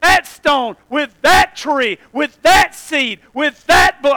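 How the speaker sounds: loud, ringing preacher cry; preaching at full force. Acted. Preacher booming God's vow to the crowd. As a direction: thunder out the word of God.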